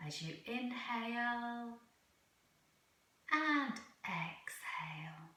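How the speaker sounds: measured, soothing delivery, phrase by phrase; guided meditation. Real, not acted. Leads a yoga nidra meditation.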